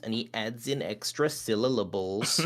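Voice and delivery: slow, over-enunciated little creature voice; slow, over-enunciated creature voice with extra syllables; weird little freak voice. Shown as a demonstration. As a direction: overpronounce every word like a strange little freak. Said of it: "he speaks like this, and he's a weird little freak, and he overpronounces and over-enunciates".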